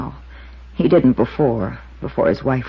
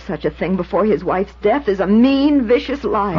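tearful, heated protest; upset denial; 6 semitones higher than usual. Acted. Waitress protesting to the investigator, hurt and heated. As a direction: defend yourself close to tears. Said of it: "take it easy now".

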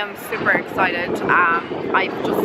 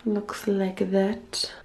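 whispering; 6 dB quieter, much slower than usual. Real, not acted. Whispered night house tour.

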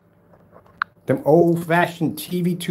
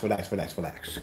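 softer, hushed mock soothing of an upset baby; 9 semitones lower, 12 dB quieter than usual. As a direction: hush him down like a fussy infant, teasing. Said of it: "I'm gonna calm you down".

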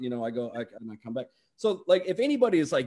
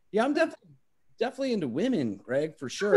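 flustered refusal; 4 semitones higher than usual. Retold or imitated. Refusing Greg's offer.

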